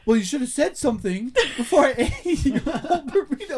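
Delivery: high, laughing mock girl voice; mocking Kate. Imitating Kate blaming him, high and giggly. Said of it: "she's like".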